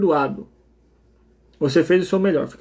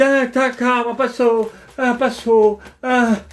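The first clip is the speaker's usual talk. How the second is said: mock frantic parent; 4 semitones higher, much slower than usual. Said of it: "Quem tá desesperado?".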